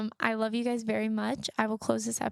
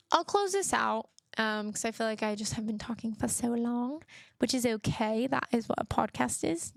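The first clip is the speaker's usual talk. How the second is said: fake British accent. Podcaster closing her episode in a mock British accent. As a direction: put on a jokey British accent to wrap up. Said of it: "you guys like my fake British accent".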